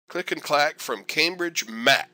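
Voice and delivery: put-on slow, lightly done Boston accent, stretching Cambridge and Ma; a hint of the Car Talk guys' Boston twang, sign-off style. Teacher fondly quoting the Car Talk guys' Boston sign-off, light Boston accent. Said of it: "they always had that little accent there".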